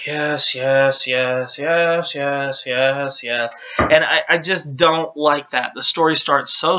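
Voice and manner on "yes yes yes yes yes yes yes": sigh, then a droning run of yeses; worn-out player hurrying the game along, acted; mock impatient. Retells impatient button-through of slow intro.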